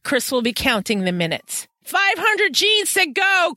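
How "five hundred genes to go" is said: higher, slow, called across the lab; teasing shout. Acted. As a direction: drag it out to needle a colleague. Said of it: "Chris shouted".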